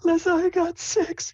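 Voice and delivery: can't wait, tell me now; high hyper girlish voice; excited Sable. Acted. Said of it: "She's like".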